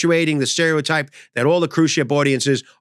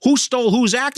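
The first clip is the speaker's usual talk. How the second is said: incredulous; 8 semitones higher than usual. Retold or imitated. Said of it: "I go".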